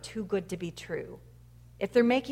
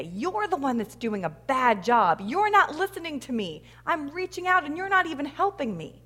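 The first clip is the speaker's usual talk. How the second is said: acted complaint at God; 4 semitones higher than usual. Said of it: "We say".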